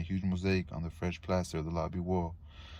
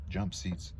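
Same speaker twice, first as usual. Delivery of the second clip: ordinary delivery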